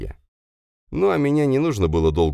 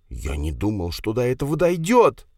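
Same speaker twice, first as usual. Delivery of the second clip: shriek; 6 semitones higher than usual. Acted. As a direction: squeal out the excuse in fear. Kravchuk's voice. (Кравчук испуганно визжит, оправдываясь)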